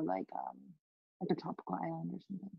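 very soft, quick trailing mumble; hard to hear. Real, not acted. Guest vaguely naming the next retreat spot, hard to hear. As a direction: let it drop away fast, barely audible. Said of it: "The where, sorry?".

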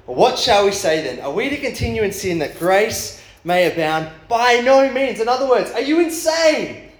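high, emphatic, indignant questioning; performed exasperation, pitched well up; Paul's incredulous reaction. Acted. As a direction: build from rhetorical question to appalled disbelief. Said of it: "Paul reacting to this hypothetical question".

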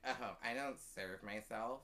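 imitating a customer in total earnest; understated haughty refusal, taken slowly; earnest entitlement. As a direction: say it sincerely, as plain fact. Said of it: "she says to me earnestly".

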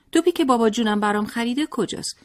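put-on high, whining little boy demanding his ball; crying child tantrum. A narrator's reading. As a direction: wail it like a spoiled boy mid-tantrum. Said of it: "قشقرق راه انداخت و گریه سر داد". (بچهٔ گریان و لجباز با صدای زیر)

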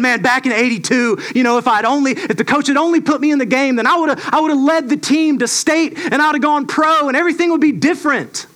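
a hint of a washed-up jock reliving his glory days; Uncle Rico impression. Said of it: "he's constantly saying".

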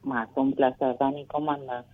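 faint, far from the phone; talking away from the mic; phone held away. Real, not acted. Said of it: "acércate al teléfono o, o subí un poquito la voz".

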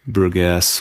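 "Bruges" in two syllables, broo-guess; mispronounced Bruges. Shown as a demonstration. Host echoing a friend's mistake, Bruges as broo-guess. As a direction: say "Bruges" as broo-GESS with hard g. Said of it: "We tried to speak it".

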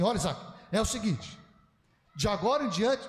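firm, emphatic talking-to; measured mock warning, each phrase set apart. Shown as a demonstration. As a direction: demonstrate a grandfather laying down the law. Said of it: "nesse tom de voz".

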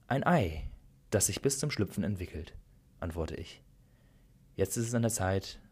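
calm, measured storyteller voice reading aloud; gentle story narration with spoken dialogue. Acted. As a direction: read it like an intimate story to a listener.

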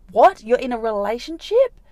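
high, loud disbelieving "What?"; shocked outburst. Retold or imitated. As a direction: hit them with stunned disbelief. Confronting cheating guy, shocked.

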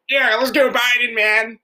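laid-back surfer dude; lazy surfer drawl. Retold or imitated. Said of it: "like, a surfer voice".

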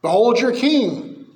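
Pilate presenting Jesus. Retold or imitated. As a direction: present the king to the crowd, drawn out. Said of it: "Pilate's off".

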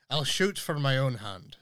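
put-on a light, slightly slowed Scottish accent; a hint of Scottish accent reading a viewer's comment; poor Scottish accent. Host quoting Belle's comment, in a weak Scottish accent. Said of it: "my very poor Scottish accent there".

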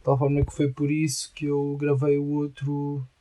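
normal talking voice

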